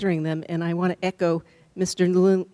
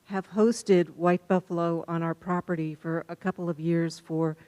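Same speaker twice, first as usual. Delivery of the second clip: muffled by mask. Real, not acted. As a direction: talk through a face mask, barely projecting. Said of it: "can you speak up a little bit".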